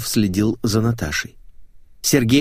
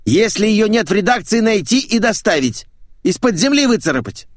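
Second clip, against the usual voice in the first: urgent high, loud bellow; thundering order; 12 semitones higher, 4 dB louder than usual. Acted. Boss ordering the secretary to find an employee, thundering. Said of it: "загремел он".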